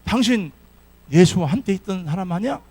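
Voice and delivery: loud, accusing challenge; accusing servant girl. Acted. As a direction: call him out loudly, pointing. Maid accuses Peter in sermon.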